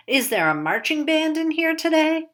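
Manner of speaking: put-on old man calling out. A narrator's reading. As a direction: call out like a senile old soda-shop man. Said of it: "Henry called".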